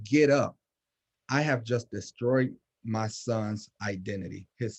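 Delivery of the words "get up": a sharp, louder "Get up"; yelling at son. Retold or imitated. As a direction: bark "Get up" at a fallen boy. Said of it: "and I yelled at him".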